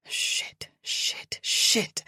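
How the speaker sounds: whispered panicked curses; breathless panicked swearing. Acted.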